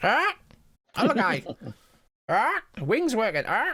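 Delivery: very high, swooping, squawking parrot-like chatter. Narrating the moment the healed wing works again, Sicky Cree's parrot-like voice. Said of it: "In his parrot-like voice".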